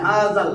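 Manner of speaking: হাযাল with its final l fully sounded; lam pronounced. Shown as a demonstration. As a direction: land firmly on the l ending হাযাল. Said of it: "এই দেখেন লামের উচ্চারণ".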